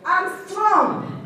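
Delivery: lightly put-on French accent, read out loud; a playful hint of a French accent. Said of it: "let me read it for you in my French accent".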